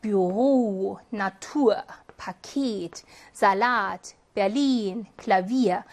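Büro, Natur, Paket, Salat, Berlin, Klavier, each slow with the second syllable stressed; word-list demo, leaning on the end of Büro, Natur, Paket, Salat, Berlin, Klavier. Shown as a demonstration. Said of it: "이음절 이후에 강세가 오는".

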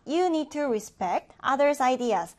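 You need to respect others' ideas read very slowly, word by word; very slow example sentence. Shown as a demonstration. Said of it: "우리 예문 보겠습니다".

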